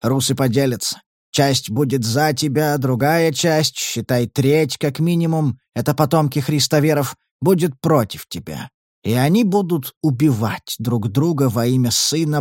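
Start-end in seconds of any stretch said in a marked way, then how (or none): none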